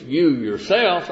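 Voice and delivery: You yourselves, slow, weight on yourselves; stress on yourselves. Shown as a demonstration. Preacher showing Paul's emphasis on You yourselves, slow and pressed. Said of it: "That was for special emphasis".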